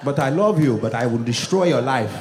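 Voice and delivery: stern father voice. Retold or imitated. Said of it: "one of those dads that's like".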